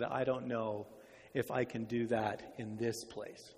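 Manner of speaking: doubtful. Acted. Doubting sister answers the verse.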